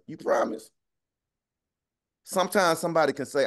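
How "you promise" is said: whispered, suspicious you promise; a skeptical whispered you promise; doubtful whisper. Retold or imitated. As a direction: hush it like you don't buy it. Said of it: "Or you be like".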